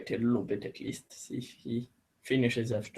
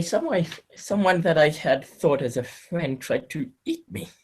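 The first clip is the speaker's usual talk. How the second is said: higher, louder, with a bitter edge of anger; 4 semitones higher, 4 dB louder than usual. Acted. Emma tells the bishop a friend attacked her, a bit of anger. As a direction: let the betrayal sting through the words. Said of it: "a bit of a anger to the, her voice".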